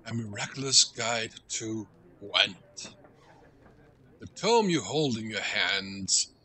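deliberate storybook read-aloud. Acted. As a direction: read it out ceremoniously, taking your time. Reads in-game book aloud.

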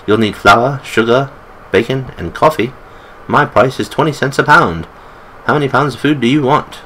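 put-on lightly done British accent for the old storekeeper; a hint of a British accent, friendly old shopkeeper selling supplies. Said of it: "I make him British".

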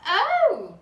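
a hammed-up dismayed cry; disappointed oh. A narrator's reading. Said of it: "said Laura".

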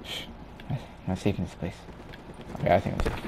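whispering while hiding; hushed whisper, hiding in the game. Real, not acted. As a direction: keep it low so they won't hear.

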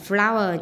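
"flower" stressed on FLOW; stress on first syllable. Shown as a demonstration. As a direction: lean on the opening syllable of "flower". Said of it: "nhấn âm một này". ("flower" nhấn mạnh âm tiết đầu)

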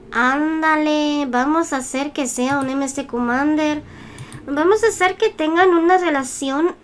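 put-on clumsy Latin American accent, slow and drawn out; a failed try at a Latin American accent, stretched slowly; attempted Latin American accent. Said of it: "yo no sé hacer acento latino".

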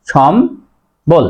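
সম্বল split slowly into shom and bol; shom, pause, bol for সম্বল; careful correct pronunciation. Shown as a demonstration. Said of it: "উচ্চারণ লেখার সময়".

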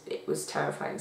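breathy whisper on terrifying; hushed whisper. Real, not acted. Recalling childhood fear of dolls.

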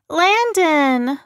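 high, loud, relieved call of a name; cry. A narrator's reading. Little girl recognising the driver, loud glad cry. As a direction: call out to him in sudden joy. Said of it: "the girl cried".

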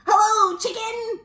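cheery high-pitched character hello; Duck. Acted. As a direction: call out hello in a high storybook voice. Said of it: "said Duck".

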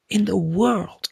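"In the world" pitched high as an amazed echo; emphatic repeat. Real, not acted. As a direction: repeat "In the world" high, letting it fall at the end.

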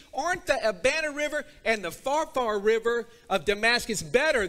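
a touch of hammed-up outrage; scornful Naaman. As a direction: scoff like a proud general refusing. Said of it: "And what is it that he says?".

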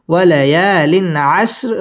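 ইয়ালিন with a clear n, no nasal hum; আশর ending on a thin r; clear, without ghunnah. Shown as a demonstration. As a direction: say the n before আশর distinctly. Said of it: "গুন্না ছাড়া স্পষ্ট করে পড়তে হবে".

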